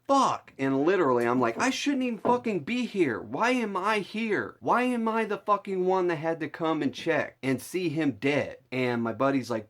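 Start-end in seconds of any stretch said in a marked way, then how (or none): 0.1-0.5 high, loud panicked curse; retold burst of panic, pitched way up; flipping out. Grandson seeing his grandpa through the window, flipping out. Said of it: "I'm flipping out". 1.6-8.6 high-pitched, panicked protest; flipping out. Retold or imitated. Grandson to his friend outside grandpa's house, flipping out. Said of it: "I'm flipping out".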